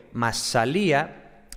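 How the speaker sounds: "masalía" with the stress on the í. Shown as a demonstration. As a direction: say "masalía", leaning on the final -lía. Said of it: "el acento está en la I".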